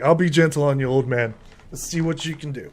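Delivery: lightly voiced cocky fighter, starting loud; cocky taunt. Young fighter challenging an old man in the pit, cocky taunt. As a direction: goad an older opponent before a duel.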